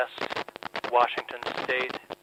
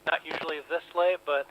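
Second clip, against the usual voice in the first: over the phone; 3 semitones higher than usual. Real, not acted. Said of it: "we've got a very low line".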